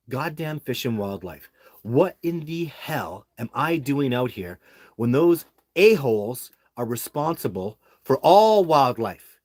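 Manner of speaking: mock outraged rant at Fish and Wildlife; pissed-off rant. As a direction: vent at the agency as if reliving it. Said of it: "I was pissed off. I was like".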